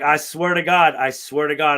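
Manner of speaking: raging at the cop who cuffed him; furious oath. Retold or imitated. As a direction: swear it through your anger.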